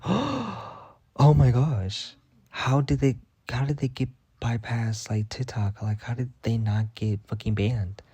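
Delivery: slow, drawn-out shocked voice; shocked gasp. Retold or imitated. To herself, scrolling TikTok, slow shocked disbelief. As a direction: act out the disbelief at the feed.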